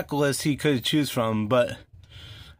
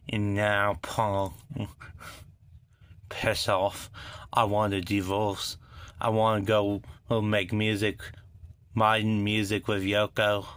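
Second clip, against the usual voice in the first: bad British accent; 4 semitones lower than usual. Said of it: "Sorry for the bad accent".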